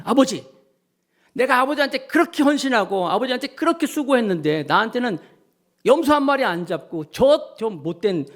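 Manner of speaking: lightly acted grumbling of the dutiful son; complaining older son. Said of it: "하면서 막 불평하잖아요". (아버지에게 불평하는 큰아들)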